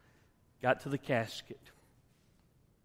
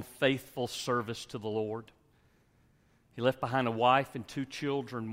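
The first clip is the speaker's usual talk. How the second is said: usual speaking voice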